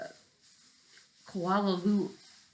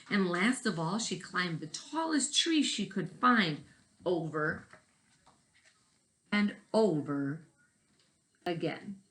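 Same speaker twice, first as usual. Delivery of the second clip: story narration. Acted. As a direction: read aloud to children, gently. Reading picture book to class.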